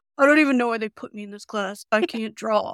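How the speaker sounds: put-on grumpy, cranky, sulky teenager voice. Art teacher mimicking a high school student: put-on cranky teenager voice. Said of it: "I'm going to do my cranky teenager voice".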